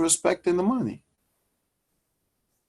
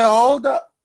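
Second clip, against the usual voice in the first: loud hold-up call; 3 semitones higher than usual. Pretend. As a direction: call out HOLD UP loud and high, then settle. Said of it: "You're gonna say".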